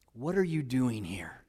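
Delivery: soft hushed question; whisper of God. Acted. Preacher voicing God's whisper to the listener, soft and hushed. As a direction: let it fall quietly, almost breathed. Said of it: "hear the whisper of God".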